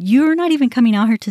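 retold heated retort; reenacted confrontation. Acts out her angry confrontation.

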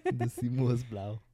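slow, halting "The Himmel ist blau"; "The Himmel ist blau" with a clumsy English-speaker accent; bad German pronunciation. Shown as a demonstration. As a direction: attempt "The Himmel ist blau" slowly in poor beginner's German. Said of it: "That was really bad".

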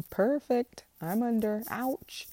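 high, loud, pleased then hurt; mock-cheerful, then a small ouch; eager senator run over. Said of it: "be like".

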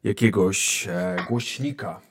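ordinary delivery

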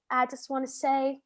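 put-on Southern accent. Bouncer to the woman he is kicking out, Southern accent. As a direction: lightly imitate a Southern man. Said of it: "I don't know why he's Southern".

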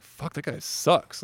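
high, slow mock annoyance; retold mad grumble. Kid mad after being cussed out, slow high grumble. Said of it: "I went home all mad".

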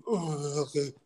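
imitated groan. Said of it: "and he goes".

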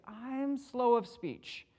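slow, halting take on Moses; a light hint of Moses, dragging the words out; lightly voiced Moses, slow and unsure; acting like Moses. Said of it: "I tried to be like Moses".

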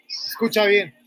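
hushed whisper of the command. Real, not acted. Telling Pradip to listen to the engine, in a whisper. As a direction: lean in and whisper it.

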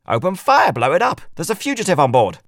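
loud, high shouted command; shouted order. A narrator's reading. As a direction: yell the order to fire. Sheriff orders shooting.

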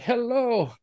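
high, sing-song tree hello; lightly hammed tree welcome; talking tree greeting. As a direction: greet the lost visitors brightly.

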